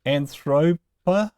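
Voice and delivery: "Anthropa" slowly, stressed on its first syllable. Shown as a demonstration. Teacher showing where a Greek accent stays, first-syllable stress on "Anthropa". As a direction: sound out "Anthropa", leaning on the opening syllable. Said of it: "can stay there".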